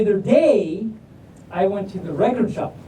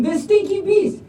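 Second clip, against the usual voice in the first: high-pitched frantic cry of the rock; panicked rock; 11 semitones higher than usual. Acted. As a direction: yelp it out while fleeing. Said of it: "Rock is running away saying".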